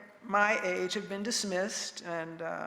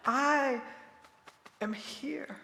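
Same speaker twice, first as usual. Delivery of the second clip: breathy whisper of presence; 3 semitones higher, 3 dB quieter, much slower than usual. Acted. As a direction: drop to a whisper. Insisting she is still present.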